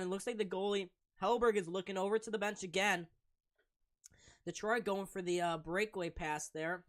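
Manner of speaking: brisk, loud hockey play-by-play; live play-by-play. Acted. Stream commentator calling the Sabres game live for viewers. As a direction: call the game as it happens.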